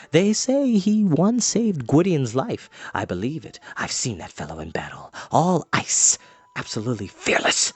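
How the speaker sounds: lightly voiced bard, hushed awe; the bard confiding about Morgant, hushed. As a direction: tell it like a secret. Fluter admiring, hushed.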